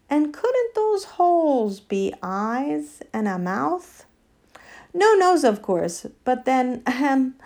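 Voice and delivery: a touch of a ladylike elephant, reasoning aloud; musing she-elephant. Acted. She-elephant suggesting to the animals it has a face, musing.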